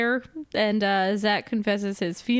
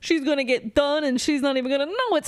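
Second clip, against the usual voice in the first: higher, hurried mock boast; mock bragging; 4 semitones higher, faster than usual. Teen boy bragging to other boys in the bathroom, mock boastful. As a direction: imitate a cocky boy, pitched up and fast.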